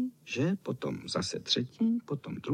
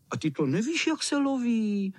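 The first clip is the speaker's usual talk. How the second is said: scornful; 10 semitones higher than usual. Acted. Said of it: "Řekli opovrženě ostatní".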